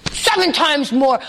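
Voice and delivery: lightly voiced king showing control; mock tyrant king. King ordering the furnace hotter, mock tyrant. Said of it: "now he's like".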